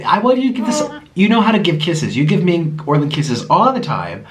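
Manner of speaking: pet-talk voice. Real, not acted. Coaxing the sloth for kisses.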